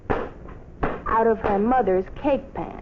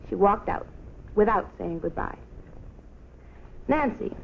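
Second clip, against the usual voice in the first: plain reading voice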